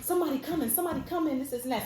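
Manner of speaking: imitated yelling. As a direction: imitate a teacher calling out from afar. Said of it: "and he's just yelling".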